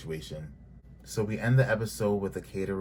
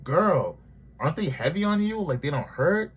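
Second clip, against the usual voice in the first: mock concern; 8 semitones higher, 5 dB louder than usual. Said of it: "I'm just like".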